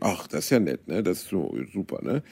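mock overly sweet politeness; fake-friendly to someone she dislikes; exaggerated friendliness. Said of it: "so übertrieben freundlich".

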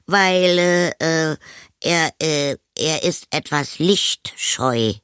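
put-on high, halting boy's excuse; flustered boy. A narrator's reading. Anton excuses hidden friend to mother, halting. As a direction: hesitate high between words, hunting for an answer.

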